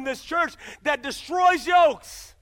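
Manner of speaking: slow, loud shout on destroys yokes; preaching shout. Acted. Preacher to church, slow loud shout. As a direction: drive each word out like a blow.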